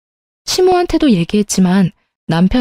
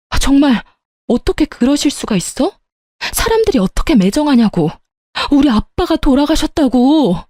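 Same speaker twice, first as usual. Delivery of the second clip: raised, higher voice, stressing 우리 and falling at the end; shouting; 5 semitones higher than usual. Acted. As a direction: cry it out across the funeral hall. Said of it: "크게 소리쳤습니다". (빈소가 울리도록 높여 소리치기)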